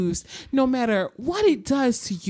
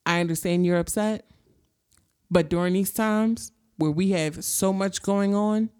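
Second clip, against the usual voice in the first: Gam's calm reply; 5 semitones lower than usual. Retold or imitated. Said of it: "Gam basically hit her with the".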